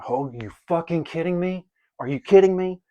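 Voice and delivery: can't believe the card came back; real surprise. Real, not acted. To viewers, amazed the same card reappeared, surprised. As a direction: pitch jumps up in disbelief.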